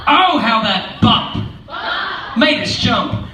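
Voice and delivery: mock fright at the bump; startled. Reading to kids, laughing mock startle at the bump.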